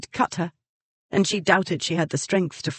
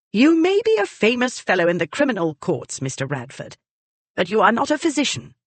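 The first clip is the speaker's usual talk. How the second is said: put-on higher, imperious old lady telling him off; lightly voiced, higher grand lady; haughty dowager scolding; 6 semitones higher than usual. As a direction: put the upstart in his place. Lady Exton scolds Radford.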